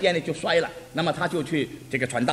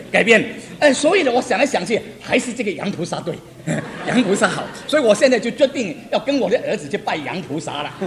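laughing through quote. Retold or imitated. Old woman's conversion retold laughing.

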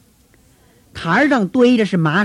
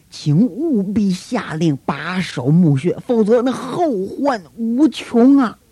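slow, insistent plea, rising at the end; slow urgent entreaty to the governor; urgent pleading; 3 semitones higher, slower than usual. Acted. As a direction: press the governor, drawn out and earnest. Priest insists to Pilate.

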